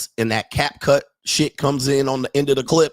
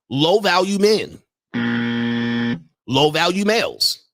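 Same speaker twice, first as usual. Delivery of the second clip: mocking disdain; 2 semitones higher than usual. Real, not acted. Mocking low value men.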